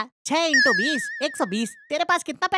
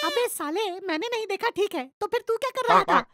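high, heated scolding of his friend; blaming the friend who ordered, in a heated pitch-raised scold; angry quarrel; 5 semitones higher than usual. Acted. Friend scolding friend over the bill, heated and pitched up.

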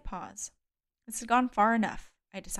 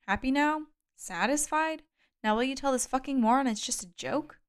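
high, bitter angry challenge; furious; 5 semitones higher than usual. Acted. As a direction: glare and lash out. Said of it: "I glared at Agathi".

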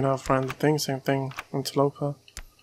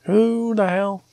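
startled; 7 semitones higher, 4 dB louder, slower than usual. Real, not acted. Startled by enemy.

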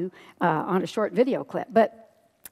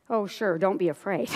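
dry, sarcastic echo; sceptical echo; 3 semitones lower, 4 dB quieter than usual. Acted. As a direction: throw the comfort back in disbelief. Doubting parent echoes Jesus's words.

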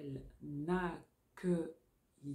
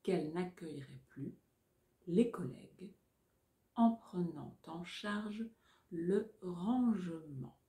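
dictating. Shown as a demonstration. Dictation chunks.

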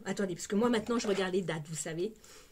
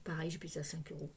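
normal talking voice

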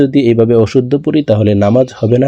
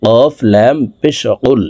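slow spelling out; slower than usual. Shown as a demonstration. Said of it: "কফ হরফের উচ্চারণ জিহ্বার গোড়া থেকে".

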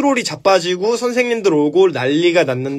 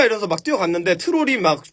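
ordinary delivery

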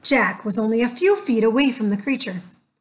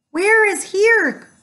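high, louder, slow call; 10 semitones higher, 5 dB louder, slower than usual. Acted. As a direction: call down from the treehouse. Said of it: "Annie called down".

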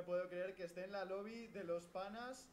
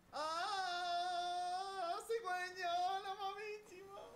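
high shocked squeals; shocked shriek; 7 dB louder, much slower than usual. Real, not acted. Gamer shocked by new game.

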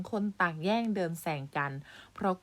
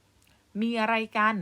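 raised, higher shouted demand; loud shout; 4 semitones higher, 7 dB louder, much slower than usual. A narrator's reading. Hurt uncle demanding what the commotion is, shouting. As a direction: call out loudly, drawing it out slowly. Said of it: "ลุงใหญ่ร้องดัง ร้องลั่น".

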